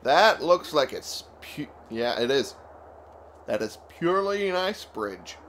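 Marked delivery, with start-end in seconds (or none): 3.5-5.4 words stretched by a yawn. Real, not acted. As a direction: speak through a yawn. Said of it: "I had to yawn again".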